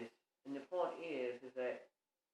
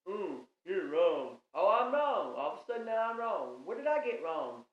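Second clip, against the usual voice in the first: mocking indignation; 3 semitones higher, 6 dB louder than usual. Mocking a partner who disagrees.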